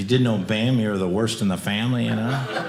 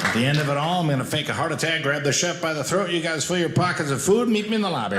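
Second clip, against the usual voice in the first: buffet coach dad; 3 semitones higher than usual. Acted. Dad giving the family the huddle plan, coach voice. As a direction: coach calling the final play, pitch climbing. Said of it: "like a football team".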